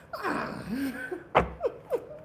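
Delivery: high, drawn-out mock dog whine; imitated dog whine. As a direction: whine back like a protesting dog. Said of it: "he kept whining at me".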